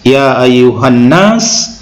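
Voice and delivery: slow, measured Arabic recitation; Quran recitation. Acted. Preacher quoting Allah's word to the congregation, slow recitation. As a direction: recite the verse slowly, drawing out long vowels.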